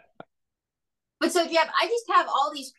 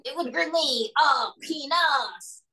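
put-on French accent; 4 semitones higher than usual. A French character woos the host.

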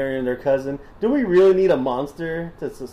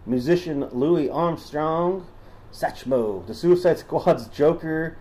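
put-on Southern accent. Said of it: "Should I stop doing the voice?".

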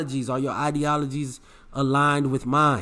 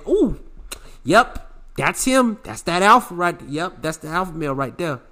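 imitating impressed onlookers. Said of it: "they say".

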